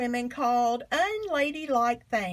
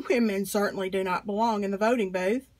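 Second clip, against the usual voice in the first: a dismissive lawmaker chuckling through the line; amused scoffing, a touch faster; mocking laughter; 3 semitones lower, faster than usual. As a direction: laugh it off, then scoff quickly at the idea.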